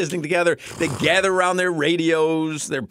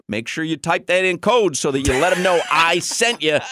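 ad read; 4 dB louder than usual. Shown as a demonstration. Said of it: "said their line".

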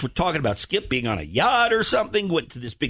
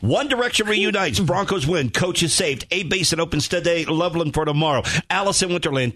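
uninterrupted list read at usual pitch; straight run-through. Pretend. Host rereading the list without comments, rolling straight through. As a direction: roll briskly from item to item. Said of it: "just roll through it without us commenting".

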